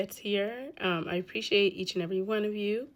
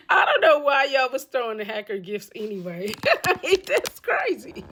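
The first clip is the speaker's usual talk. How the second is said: real laughter breaking through the words; can't believe it, laugh as you talk; laughing in disbelief; 3 semitones higher, 3 dB louder than usual. Real, not acted. Host reacting to viewers gifting a hacker, laughing in disbelief. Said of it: "I'm laughing because I just can't believe".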